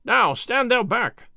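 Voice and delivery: slow, high-pitched shouted order; guard calling out to someone shoving him; crying out. A narrator's reading. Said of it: "cried one of the men-at-arms".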